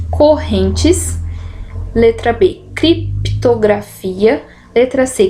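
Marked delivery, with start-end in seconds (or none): 2.7-4.4 slow, syllables spaced. Shown as a demonstration. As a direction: sound out criptografia. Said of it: "divisão silábica".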